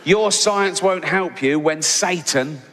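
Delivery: slow, heavy, emphatic reading of a capitals tweet; mock shouted tweet. Comic quoting a Texan's all-caps tweet, slow mock menace. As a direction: read it like a ranting all-caps threat. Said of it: "remember it's all in capitals".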